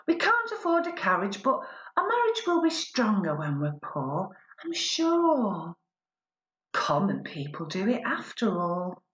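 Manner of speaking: rhythmic performance-poetry recital; measured spoken word delivery addressing an imagined husband; spoken word poem. Acted. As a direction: deliver the verse with a poet's timing.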